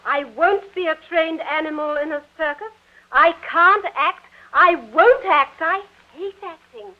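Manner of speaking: indignant, emphatic protest; defiant refusal. Acted. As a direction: dig in and refuse, hitting key words hard. Daughter defies father's acting plan.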